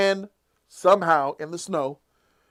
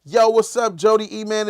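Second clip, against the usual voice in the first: hype shout-out; 5 semitones higher, 10 dB louder than usual. Real, not acted. Live shout-out to a listener.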